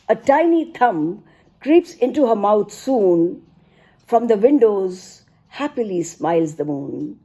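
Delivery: expressive storytelling poetry reading; poem recital. Acted. Mother recites a poem about her daughter, recital voice. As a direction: tell the bedtime tale in verse.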